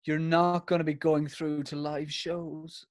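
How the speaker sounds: slow mock-solemn verdict; Louis Walsh. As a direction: lightly imitate a judge dragging out bad news. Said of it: "He's like".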